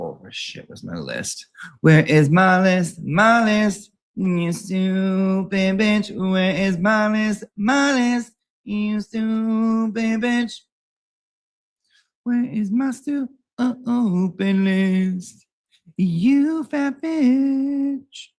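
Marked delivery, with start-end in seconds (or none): 1.8-6.1 high, loud exasperated yell at himself; mock angry yell. Yelling at himself over lost list. 6.2-10.6 mock angry yell. Repeats the mock tantrum. 12.2-18.3 much higher, slowed mock insult; mock angry high shriek. Third round of mock yelling.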